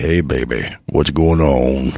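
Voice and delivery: raspy low voice. Host joking about his raspy voice this week, raspy deep soul-singer voice. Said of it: "when you get that raspy thing going on".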